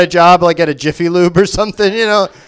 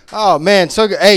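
ordinary delivery

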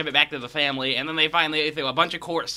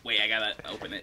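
opening can with teeth; 6 semitones lower, 8 dB quieter, faster than usual. Real, not acted. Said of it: "Oh, he's using his teeth".

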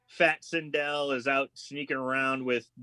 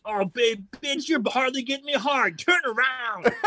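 higher, giggling through the bossy line; barely keeping a straight face; laughing mock demand; 7 semitones higher than usual. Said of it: "He goes".

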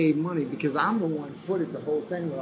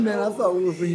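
higher, mock-wounded retelling of the line; retold hurt plea; 5 semitones higher, 4 dB louder, faster than usual. Retelling to the host what he told Jim after the elbow, higher mock-hurt plea. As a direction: replay the plea a little higher, as if stung. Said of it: "I said".

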